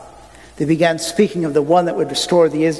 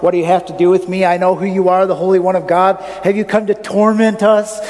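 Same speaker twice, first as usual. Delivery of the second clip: demon crying out; 3 semitones higher, faster than usual. Acted. Demon cries out.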